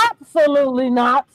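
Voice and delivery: measured, emphatic quoted no; forceful refusal. Retold or imitated. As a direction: imitate his firm refusal, evenly. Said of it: "Just like that".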